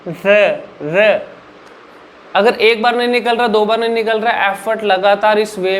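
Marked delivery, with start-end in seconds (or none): 0.1-1.2 र with the tongue tip raised to the ridge, held; tongue-up r demo. Shown as a demonstration. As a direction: demonstrate र slowly, tongue touching the roof. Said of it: "तो र के लिए ऊपर जीभ लगाओ".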